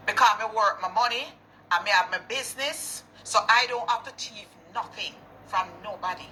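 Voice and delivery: angry rant. Real, not acted.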